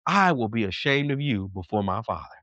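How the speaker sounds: measured, weighty voice of the Lord; God. Retold or imitated. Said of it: "the word of God says".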